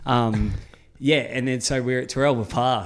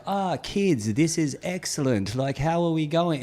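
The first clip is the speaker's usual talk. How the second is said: lame Batman voice; 4 semitones higher, 3 dB quieter than usual. Retold or imitated. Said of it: "we know the Batman talks like this".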